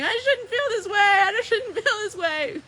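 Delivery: high, loud cartoon wail; mock wailing protest. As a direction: whine it like an overdone sob. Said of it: "difference between crying and going".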